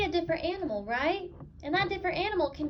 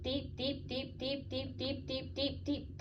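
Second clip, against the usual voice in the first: suspenseful hush; 8 dB quieter than usual. Acted. Suspense in read-aloud.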